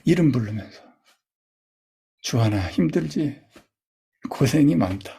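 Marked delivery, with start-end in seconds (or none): 2.2-5.1 gentle self-comfort. Shown as a demonstration. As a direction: comfort yourself like a friend. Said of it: "웃으면서". (자신을 부드럽게 달래듯이)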